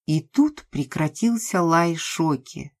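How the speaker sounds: ordinary delivery, nothing marked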